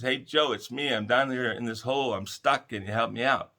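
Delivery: man in a hole hails his friend Joe, calling out loud; mock scream up. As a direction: yell up to a friend for help. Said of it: "he screams up and he says".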